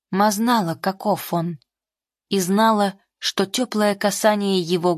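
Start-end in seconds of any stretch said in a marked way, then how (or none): none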